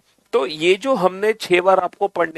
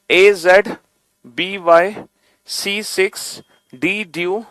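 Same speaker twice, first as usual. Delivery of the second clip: each pair read slowly with a pause after it; slow demo recitation; slower than usual. Shown as a demonstration. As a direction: spell out every pair clearly, one at a time. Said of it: "एक बार मैं आपको पढ़ के दिखाता हूं". (धीरे-धीरे रुक-रुक कर पढ़कर दिखाना)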